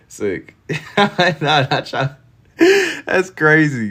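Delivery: high laughing protest; amused disbelief. Real, not acted. Laughing disbelief at baby crying.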